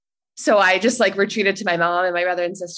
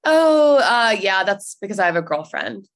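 nonchalant; 4 dB louder than usual. Retold or imitated. Telling brother and sister about a girlfriend, mock nonchalant. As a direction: toss it out lightly, imitating your own offhand delivery. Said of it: "went my nonchalant way and I said".

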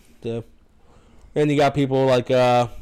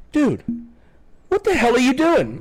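raised voice; 12 semitones higher than usual. Retold or imitated. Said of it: "raising my voice at him".

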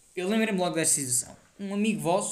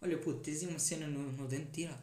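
casual normal tone; 3 semitones lower, 8 dB quieter than usual. Shown as a demonstration. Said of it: "nem sussurro".

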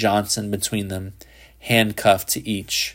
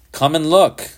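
high, louder eager cry; excited cry; 7 semitones higher, 4 dB louder than usual. A narrator's reading. Boy calls his father to the telescope, excited high cry. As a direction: call him over in a rush of wonder. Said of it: "he cried".

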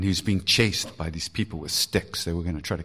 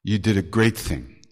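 warm praise; 5 dB louder than usual. Retold or imitated. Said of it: "Maharaji said".

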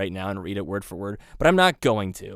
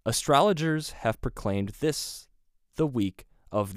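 slow dramatic reading. Shown as a demonstration. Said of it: "it's like story timing".

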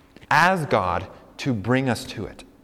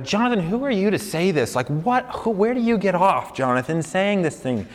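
higher-pitched, indignant-sounding objection; imagined challenge; 5 semitones higher than usual. Acted. Listeners challenge the preacher's right to say this, higher-pitched challenge. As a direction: push back as a doubting listener. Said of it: "some of you might ask".

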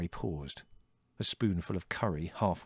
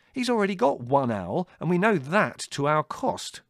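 high, loud, scathing complaint; biting; 11 semitones higher, 7 dB louder than usual. A narrator's reading. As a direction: drive the grievance home. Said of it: "said Larry bitingly".

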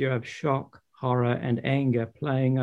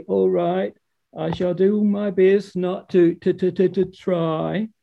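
weary sorrow; 5 semitones higher, 4 dB louder than usual. Acted. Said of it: "She said wearily".

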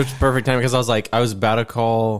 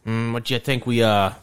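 lightly voiced gangster sidekick; old-timey gangster. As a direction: think aloud like a movie mobster plotting. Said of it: "the old-timey gangsters".

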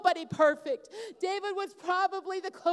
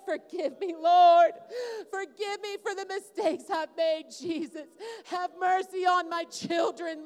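cries of forgiveness rising over the room; fervent altar prayer; 3 semitones higher than usual. Real, not acted. Leads altar prayer over fathers.

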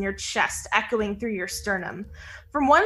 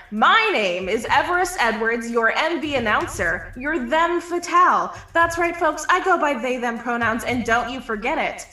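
magically amplified voice. Acted. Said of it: "A booming voice echoes through the field".

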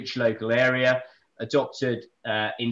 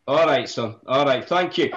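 put-on Scottish acknowledgement; Scottish accent; 4 dB louder than usual. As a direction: say thanks in mock Scottish. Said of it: "Do I do it in a Scottish accent".

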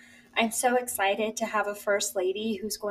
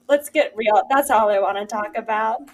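emphatic; 7 dB louder than usual. Real, not acted. Eager to discuss Kamala.

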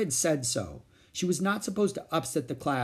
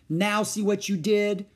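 blaming; 8 semitones higher, 4 dB louder than usual. A narrator's reading. Boy blaming Ramona.

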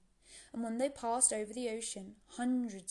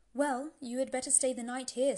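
North Wind voice; 3 semitones higher, 6 dB louder than usual. Acted.

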